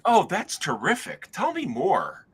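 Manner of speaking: high, mock-chirpy reply; teasing high voice to a friend; sarcastic play-along. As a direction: play along as if it's a prank. Mock-friendly reply to prank call.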